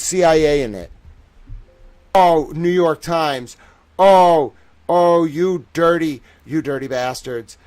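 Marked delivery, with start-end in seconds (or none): 2.1-7.6 loud, slow furious cry at the paper; angry outburst. Real, not acted. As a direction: let the rage spill out. Angry at the newspaper.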